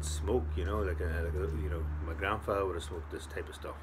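talking around pipe stem; muffled by pipe; pipe in mouth. Real, not acted. Seen 1: Pipe held at lips while talking; clearly in mouth right after.

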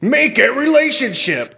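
high mock-sultry read of a scam bio; mocking profile read. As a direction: read it like a cheesy bot.

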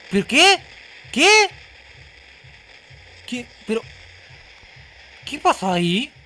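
loud, high shocked cry; shocked outburst. Real, not acted. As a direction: blurt it out in disbelief. Sudden health loss in game.

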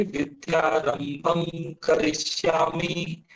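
slow recited विद्यारंभम करिष्यामि, syllables drawn out; pronunciation example. Shown as a demonstration. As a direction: draw out विद्यारंभम करिष्यामि as a model. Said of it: "pronunciation के थोड़े से दोष होते हैं".

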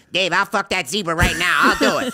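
loud, high imitation of a boastful friend; overexcited mimicked bragging; mock boasting. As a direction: blurt it out as a hammed-up dare. Mimics Ilya's competitive boast.

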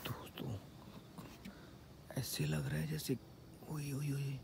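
hushed whisper, afraid to be heard; nervous whisper in the dark. Real, not acted. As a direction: whisper so nothing hears you. Whispering in a scary spot.

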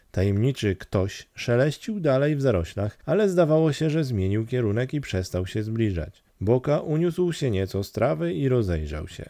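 usual speaking voice

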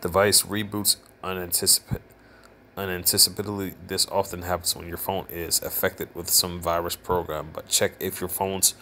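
flat robotic reading voice. Real, not acted. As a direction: read it like a robot. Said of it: "I feel like I'm talking like a robot".

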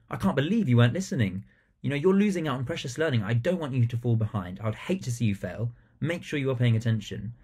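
earnest, quick, caring scold; caring but stern. Shown as a demonstration. Teacher telling off a pupil who wasn't listening, caring and stern. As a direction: make them feel you care. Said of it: "really showing them you care".

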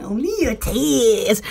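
siren announcer voice. Retold or imitated. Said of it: "it's like".

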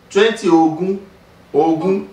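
Ogun with the vowels drawn long; stretched Ogun. Shown as a demonstration. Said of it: "stretch it".

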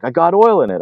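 high-pitched mock indignation; imitated upset protest. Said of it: "Alexi is freaking out. He's pretty upset".

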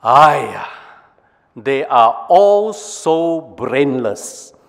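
slow, weary Singlish aiyah; Singlish sigh. Acted. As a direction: drawl it out like a fed-up Singaporean. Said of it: "Brain one".

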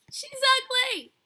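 high, loud, drawn-out shriek; horrified yell. Real, not acted. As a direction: shriek it at the sight of a monster. Startled by monster.

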